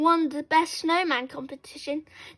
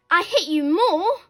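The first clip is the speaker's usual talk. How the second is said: higher, louder angry comeback; acted childish yell; moderate shout; 4 semitones higher, 5 dB louder than usual. A narrator's reading. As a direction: shout back to outdo a rival. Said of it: "shouted Susan".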